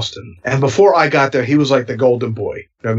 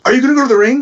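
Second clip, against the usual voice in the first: mock impatient Paul; 10 semitones higher, 3 dB louder, much faster than usual. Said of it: "He goes".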